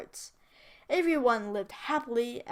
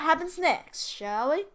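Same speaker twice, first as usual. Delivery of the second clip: posh accent; 5 semitones higher than usual. Real, not acted. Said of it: "I don't know why I did that accent".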